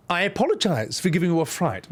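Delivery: lightly posh British queen; a hint of an old English monarch; mild royal impression; Queen Elizabeth. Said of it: "Wait, Queen Elizabeth?".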